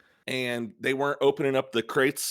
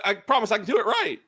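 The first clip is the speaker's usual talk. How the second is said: high, crying plea; 9 semitones higher than usual. Acted. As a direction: sob out the promise.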